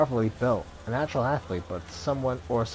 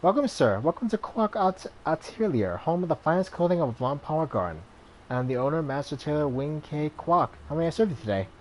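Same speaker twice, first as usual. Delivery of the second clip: fussy tailor greeting; 4 semitones higher than usual. Acted.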